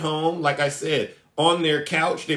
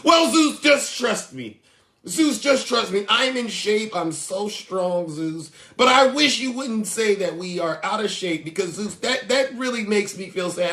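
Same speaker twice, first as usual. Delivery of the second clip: mock pleading fan. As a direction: beg him to believe you. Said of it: "And I said".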